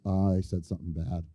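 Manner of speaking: put-on soft, sheepish mumble of a boy; owning up quietly and small; a boy admits to the principal, quiet and sheepish; sheepish confession.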